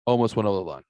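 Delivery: whispered confession; hushed, as if letting them in on a secret. Acted. Admitting to the co-hosts he almost crossed the line, in a whisper.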